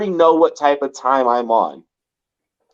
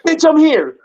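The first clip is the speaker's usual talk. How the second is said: sassy retort; 13 semitones higher, 4 dB louder than usual. Retold or imitated. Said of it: "I'm like".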